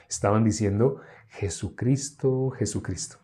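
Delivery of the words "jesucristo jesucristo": slow. Shown as a demonstration. Slow explanation of the crowd's chant.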